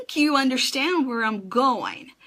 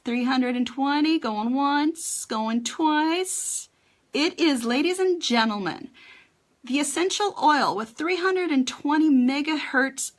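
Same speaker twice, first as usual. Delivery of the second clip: auctioneer; 4 semitones higher than usual. Pretend. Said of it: "I feel like an auctioneer".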